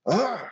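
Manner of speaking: exasperated groan. Real, not acted. Fan despairs at his favorite fighter taking chances, frustrated groan.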